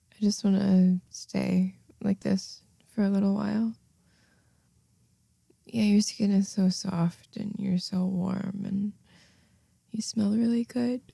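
soft intimate murmur; tender murmur. Acted. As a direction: murmur while cuddling. Cuddling murmur.

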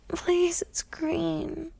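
breathy, eager go-ahead; hushed whisper. Acted. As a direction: whisper it softly. Hushed consent.

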